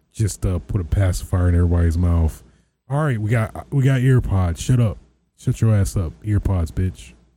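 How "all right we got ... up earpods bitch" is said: condescending, talking-down tone. Mocking how the company treats its customers, doing an Apple impression. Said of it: "That's my clear impression of Apple and customers".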